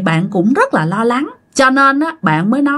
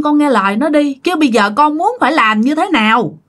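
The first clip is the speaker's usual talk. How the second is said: put-on exasperated old driver. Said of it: "Chú đó cũng bức xúc".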